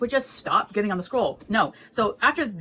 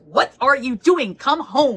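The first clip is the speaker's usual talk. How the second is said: sharp mock scolding, louder; 5 semitones higher, 8 dB louder, much slower than usual. Chuaning scolding the Emperor in the restaurant, mock sharp. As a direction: scold him like a fed-up partner. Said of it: "starts to scold the Emperor".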